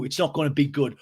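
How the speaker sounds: full-voiced mocking echo; James echoing the threat. Recapper imitating James repeating Schwartz's threat, challenging. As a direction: throw the threat back at full volume.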